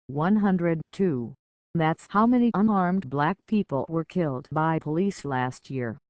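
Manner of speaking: rhythmic spoken-word delivery to a crowd; slam poetry. Acted. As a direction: perform it like a slam poet on stage. Slam poem with statistics.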